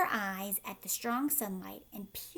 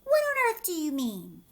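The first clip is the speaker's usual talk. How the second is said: loud, higher alarmed cry; startled outcry; 6 semitones higher, 6 dB louder than usual. A narrator's reading. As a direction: demand it in alarm.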